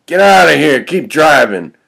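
loud, high angry snarl; angry, forceful dismissal; through gritted teeth. Acted. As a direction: snap it out to send someone away. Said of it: "just grits his teeth".

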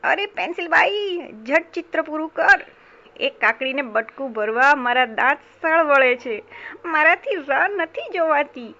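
acted hungry impatience; impatient urging. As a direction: hurry them along, eager to eat. Hungry mouse urges pencil to hurry.

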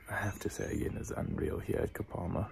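soft whispered aside; whispering. Real, not acted. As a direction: drop to a whisper. Quiet aside at night.

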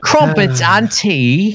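mock British accent. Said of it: "Keep saying that".

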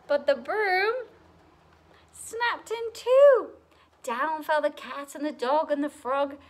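lively rhyming storybook reading; story narration. A narrator's reading. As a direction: read to children with a bouncy lilt. Reads picture book aloud.

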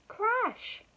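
high, exclaimed sound word; dramatic crash. A narrator's reading. Narrator as Elephant hits trampoline, dramatic exclamation. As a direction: burst out with the crash after suspense.

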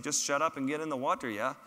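lightly imitated Swedish guide's accent. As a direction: give the order as a mock Swede. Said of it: "in his deep Swedish accent".

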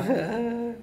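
high, soft laugh; a high teasing little laugh. Real, not acted. Teasing a child about crying. (tawa kecil bernada tinggi)

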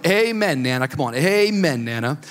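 mock-pleading churchy prodding; hurry-up amen. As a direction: nudge Nana to wrap up the prayer. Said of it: "Hurry it up".

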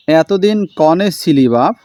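slow, a light south Bengal dialect; dialect line. Shown as a demonstration. Teacher reads the father's question in a light south Bengal dialect. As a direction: ask এতদিন কনে ছিলি বাপ in a mild village dialect. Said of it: "এতদিন কোথায় ছিলি বাবা?".

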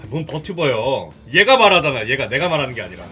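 ordinary delivery

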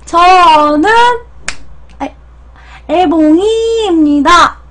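uwu speak. Acted. Cutesy streamer self-intro.

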